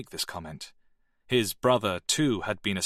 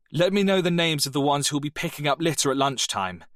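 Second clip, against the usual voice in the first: a much higher, louder stern command; stern deputy head; 6 semitones higher, 4 dB louder than usual. Acted. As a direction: cut the noise dead with authority.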